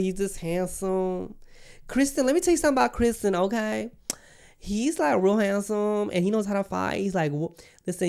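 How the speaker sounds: put-on high, fast, gushing lovestruck girl voice; playing Rhaenyra swooning over her knight, high and excited; swooning princess. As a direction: gush about your handsome knight like a smitten princess.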